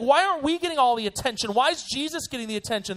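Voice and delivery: mock whining. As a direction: whine about being left out, imitating sulky leaders. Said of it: "They're whiners".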